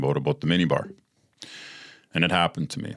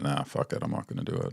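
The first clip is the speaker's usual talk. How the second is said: hushed; 4 semitones lower, 9 dB quieter, faster than usual. Retold or imitated. Quietly talking himself out of drinking.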